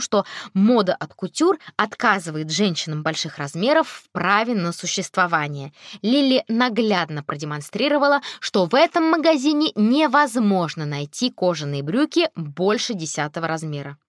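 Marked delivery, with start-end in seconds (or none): none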